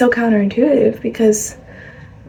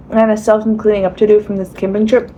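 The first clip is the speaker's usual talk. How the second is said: talking with a mouth full; chewing while talking. Real, not acted. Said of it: "I gotta stop talking with my mouth full".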